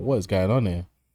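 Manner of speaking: normal talking voice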